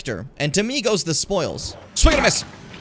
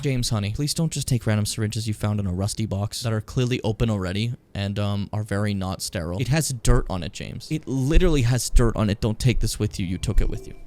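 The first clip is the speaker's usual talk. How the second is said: lower, patient motherly scolding; scolding mom; 9 semitones lower than usual. Pretend. Streamer scolding her companion James over a dirty syringe, lower motherly tone. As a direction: chide him like a tired mom.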